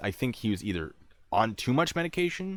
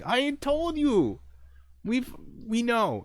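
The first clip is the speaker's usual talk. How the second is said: very high, slow, drawn-out protest; exasperated; 4 dB louder, much slower than usual. Retold or imitated. Investigator answers the paranoid man, exasperated. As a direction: drag each word out high.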